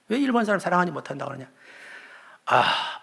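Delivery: usual speaking voice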